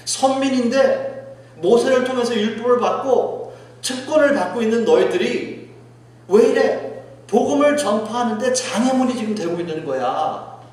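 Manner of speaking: acted-out indignant rebuke; exasperated reproach. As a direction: demand an explanation from the wayward. Preacher voices God's reproach.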